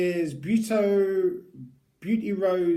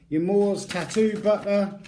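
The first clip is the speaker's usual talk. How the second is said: hammed-up Scottish ad voice, a little higher and louder; bad Scottish accent; 4 semitones higher, 3 dB louder than usual. Vlogger reading the product slogan aloud, in a bad Scottish accent. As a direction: sell the tattoo butter in a mock Scottish accent. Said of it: "the world's worst Scottish accents".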